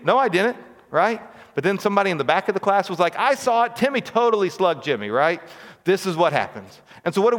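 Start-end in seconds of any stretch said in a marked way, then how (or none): 0.0-0.6 put-on child denying. Child denies in classroom story. 3.2-5.1 tattling classmate. Retold or imitated.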